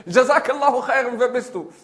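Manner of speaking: high, loud repeat, easing off; echoed thanks. Acted. Forest voice answers the man, echoed call. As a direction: send the blessing back.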